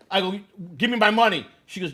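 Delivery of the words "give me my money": angry demand. Retold or imitated. Demanding money from mother.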